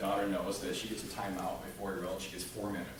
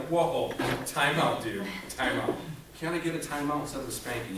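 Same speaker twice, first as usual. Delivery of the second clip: put-on kid pleading; 2 semitones higher, 4 dB louder than usual. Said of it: "I'm like".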